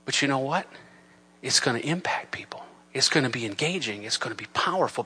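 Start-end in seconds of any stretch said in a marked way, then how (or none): 1.4-2.7 hushed, intimate emphasis; whispered repeat. Shown as a demonstration. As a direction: whisper "impact people" with a rise on "impact". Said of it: "repeated after plain take".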